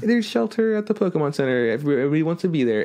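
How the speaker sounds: high, rushed, sing-song nurse; high Nurse Joy voice. Retold or imitated. Retelling Pokemon to a friend, high quick Nurse Joy voice. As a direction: chirp it out fast like a cartoon nurse.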